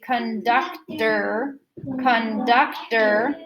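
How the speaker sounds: CONDUCTOR in three slow separate beats; drawn-out CONDUCTOR, each syllable apart. Shown as a demonstration. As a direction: beat out CONDUCTOR as kun, duc, ter. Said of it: "have your hand like this and say".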